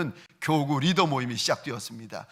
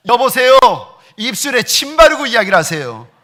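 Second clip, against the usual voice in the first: sudden loud bark of a yell, higher; 7 semitones higher, 14 dB louder, faster than usual. Retold or imitated. Pastor jokingly yells at the deacon, loud and sharp. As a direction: burst out shouting at the room. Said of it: "버럭 소리를 질렀습니다".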